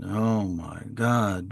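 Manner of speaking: a hint of a bored, slow drone; mock grumpy drone. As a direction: drag it out like a grumpy speaker with no inflection. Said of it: "droning on it".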